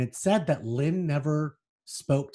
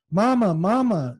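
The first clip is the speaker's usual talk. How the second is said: crying; 7 semitones higher, 5 dB louder than usual. Acted. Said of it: "she started crying for me".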